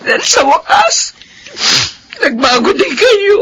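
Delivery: high cry breaking into tears; joyful weeping mother. Acted. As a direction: sob it out, overjoyed.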